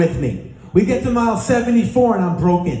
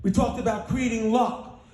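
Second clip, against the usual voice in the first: much softer, settling voice; hushed recap; 10 dB quieter than usual. Real, not acted. Speaker recaps the day for the audience after chanting, hushed. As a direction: bring the room down, speaking softly. Calming crowd for closing recap.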